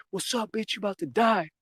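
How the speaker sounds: high-pitched mock menace; acted threat. Drug dealer aiming gun at teen, mock threat.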